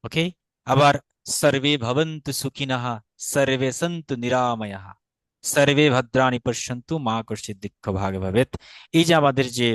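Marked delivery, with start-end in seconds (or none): 1.4-8.5 measured peace-prayer recital; Sanskrit mantra recitation. Shown as a demonstration. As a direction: recite the Sanskrit with drawn-out vowels. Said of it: "শান্তি পাঠের মন্ত্র". (শান্তি মন্ত্র পাঠের ভঙ্গিতে)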